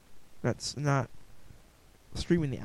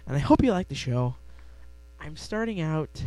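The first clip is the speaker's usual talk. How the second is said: normal talking voice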